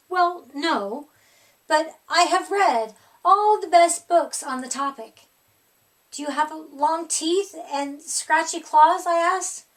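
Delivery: eager to please, a bit loud; nerdy polite monster. Acted. Herbert answers the child.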